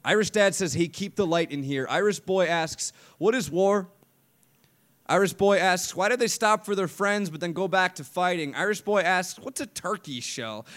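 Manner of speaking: driving, rhythmic poetry recital; spoken-word poem. Acted. Poet to audience about Irish dad and boy, spoken-word recital. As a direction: tell it as a slam poem, punching the repeats.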